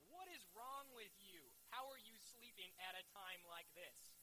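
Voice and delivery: slow, incredulous mock scolding; mildly hammed-up disbelief, words drawn out; exasperated scolding. Captain finds Jonah asleep in the storm, exasperated scolding.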